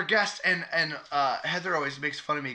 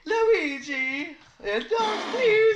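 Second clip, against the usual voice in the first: high-pitched laughing words; 14 semitones higher, 5 dB louder, much slower than usual. Real, not acted. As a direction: laugh through the line. Laughing while naming character.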